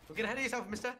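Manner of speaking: teasing mock-British scolding; British-accented mock warning. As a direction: put on a British accent to tease a rival. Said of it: "Why are you doing a British accent".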